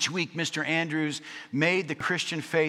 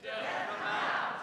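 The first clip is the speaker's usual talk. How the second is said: mock conviction; 8 semitones higher, 7 dB quieter than usual. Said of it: "we said it with more conviction".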